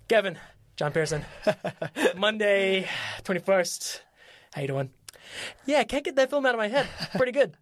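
a film exec who can't hide his eagerness; growing excitement. Retold or imitated. Producer leaving Kevin an eager voicemail, mildly excited. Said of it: "getting more and more, like, excited about the film".

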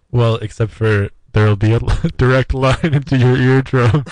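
loud. Shown as a demonstration. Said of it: "Like this".

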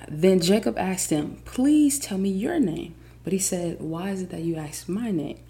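loud, rising proclamation of the verse; dramatic Bible reading with building fervor; emphatic scripture reading. Acted. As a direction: stretch the questions and punch each phrase. Resumes reading the passage.

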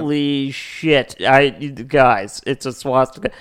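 slow, stunned alarm. Retold or imitated. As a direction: drag out the shock of seeing a swastika. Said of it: "It's more like".

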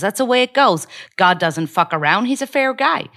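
punchy Rosie O'Donnell rant in an American accent; American accent monologue. Shown as a demonstration. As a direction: hit it hard in a put-on American accent. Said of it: "it's, like, fast, it's punchy".

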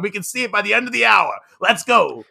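telethon host. Pretend. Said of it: "I'm feeling like this is a telethon".

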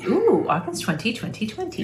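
high, breathy mock-excited echo; high playful echo. Echoes the date playfully.

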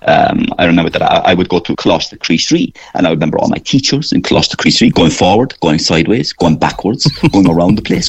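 lightly voiced Cork accent; a hint of a Cork schoolboy character, rolling through set phrases. Comedian doing his characters by school, light Cork accent. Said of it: "doing so many Cork characters".

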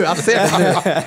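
laughing as it dawns on him; amused realization. Real, not acted. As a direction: say it through a laugh, seeing it now. Laughing recognition.

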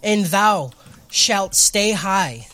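mock King James preacher; hammed-up solemn sermon voice; booming biblical narration. Mock sermon for four twenty.

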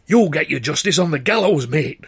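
loud jeer from the crowd; a local shouting at the prisoner; bloke shouting. A narrator's reading. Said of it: "one bloke shouted".

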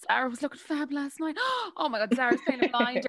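gasps, then breathless high praise; gasping proud mammy. Retold or imitated. Neighbours gushing to the proud mum, breathless and excited. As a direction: gush like a starstruck Irish mammy. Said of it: "does she love for people to say".

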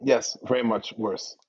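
distant, as if across the room; far from mic. Real, not acted. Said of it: "Yeah, you do sound far".

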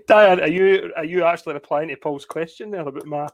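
slightly husky, worn voice. Real, not acted. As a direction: speak with a husky throat. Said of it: "about my husky voice tonight".

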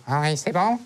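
lightly acted bedroom exclamation in the real voice; mock moans of pleasure. Man imitating himself in bed with a date, mock pleasure. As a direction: imitate helpless pleasure, comically. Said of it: "les bruits de jouissance".

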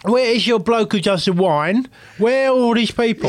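high, emphatic run of questions; insistent interrogation. Retold or imitated. Customer interrogating coy owner about his staff, indignant. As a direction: press harder with each question.

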